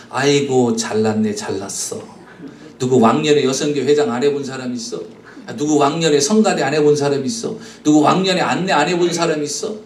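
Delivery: imitating a sneer, low and under the voice; sneering put-down. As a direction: belittle them in a low, dismissive voice. Acting out sneering church members.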